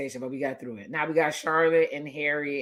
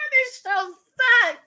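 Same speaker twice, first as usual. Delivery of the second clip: mock disgust; 4 dB louder, much slower than usual. Real, not acted. Annoyed reaction to TV show.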